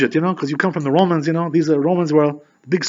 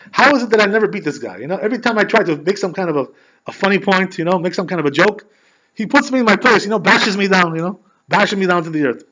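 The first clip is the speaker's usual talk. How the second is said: mildly exasperated, higher-pitched retelling; 4 semitones higher than usual. Retold or imitated. Man going nuts over always losing to the rabbi, exasperated. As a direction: act out his mounting frustration. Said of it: "So this guy was going nuts".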